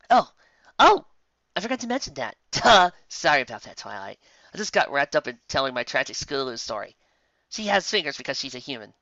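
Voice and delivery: high, bright, giggly apology; cheery Lyra. Acted. Lyra apologising to Twilight, high and chirpy. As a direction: brush it off with a laugh.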